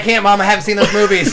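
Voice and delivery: mock whiny kid. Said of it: "You're like".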